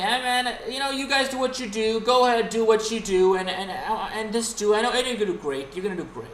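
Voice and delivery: high, breezy boss voice, lightly voiced; mock Tony Khan. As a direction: play the clueless boss who lets anyone do anything. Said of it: "And Tony Khan saying".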